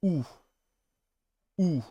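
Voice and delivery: ooh with rounded lips, tongue back; French ou sound. Shown as a demonstration. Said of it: "you will do something like".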